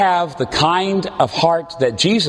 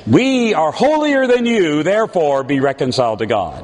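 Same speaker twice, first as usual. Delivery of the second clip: mock holier-than-thou. Preacher mocks a self-righteous apostle, haughty. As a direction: look down your nose in mock piety. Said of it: "He does not say".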